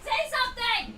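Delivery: insistent demand. Real, not acted. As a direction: push them to talk.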